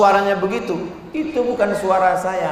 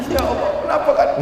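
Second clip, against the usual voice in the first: imitated higher-pitched tearful prayer; mock crying; 6 semitones higher than usual. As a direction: act out breaking into tears while praying. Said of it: "akhirnya saya nangis". (pura-pura menangis saat berdoa)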